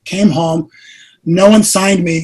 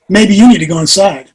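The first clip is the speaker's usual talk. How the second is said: louder mock-annoyed dismissal; retold testy retort; 5 dB louder than usual. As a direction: send the wife away, half-joking. Acted retort to wife, amid laughter.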